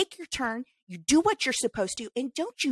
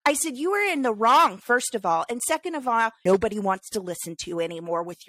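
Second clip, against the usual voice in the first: indignant scolding; 2 semitones higher than usual. Retold or imitated. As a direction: put the driver in his place. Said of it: "And I go".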